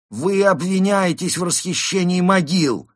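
loud, high, drawn-out roar; barked accusation. A narrator's reading. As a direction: thunder the charge at the suspect. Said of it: "рявкнул он". (рявкающий грозный окрик)

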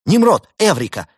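high, loud burst of triumph; young technician thrilled at his discovery; excited exclamation. A narrator's reading. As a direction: cry out with a sudden brainwave. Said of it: "воскликнул техник".

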